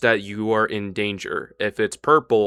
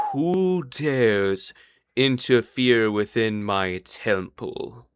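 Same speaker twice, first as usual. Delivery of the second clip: slow, drawn-out villain voice; Elevar; slower than usual. Acted. Game master as a hidden foe challenging intruders, slow menacing villain voice. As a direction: draw the words out like a lurking temple master. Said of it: "you hear the sounds of Elevar's voice".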